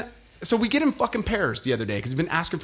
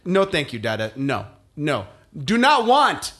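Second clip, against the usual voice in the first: put-on prim toddler refusal. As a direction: imitate the toddler's polite but firm no. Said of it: "I'm like".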